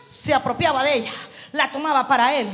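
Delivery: driving, emphatic preaching; prédica enérgica. Real, not acted. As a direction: build it phrase on phrase like a preacher. Predica a plena fuerza. (prédica enérgica, frase tras frase con insistencia)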